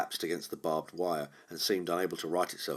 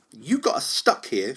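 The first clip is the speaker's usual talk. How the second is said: lip curling; 8 semitones higher, 10 dB louder, slower than usual. Acted. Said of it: "she said, lip curling".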